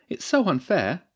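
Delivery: high-pitched, aggrieved complaint; indignant protest. Acted. Louisa complains at half-time in the changing room, aggrieved. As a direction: protest the injustice, pitched well up. Player protests the referee's calls.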